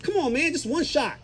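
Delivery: lightly imitating a coaxing buddy; peer pressure. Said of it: "Peer pressure".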